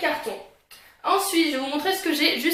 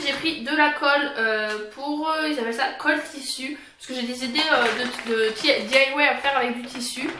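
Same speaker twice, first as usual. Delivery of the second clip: fresh tongue piercing. Real, not acted. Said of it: "désolée si je parle bizarrement".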